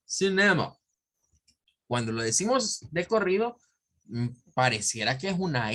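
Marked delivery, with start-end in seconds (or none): 0.1-0.8 Cinema in English, SIN-uh-muh, schwa vowels. Shown as a demonstration. Teacher giving the English word after the syllables. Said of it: "porque en inglés es".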